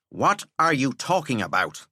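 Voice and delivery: irritated schoolmaster; dry impatient teacher. Acted. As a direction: needle the breathless boy.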